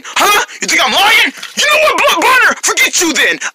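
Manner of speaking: high-pitched, worked-up accusation; indignant quarrel. Acted. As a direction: fall out with a best friend. Friends quarrel over who is lying.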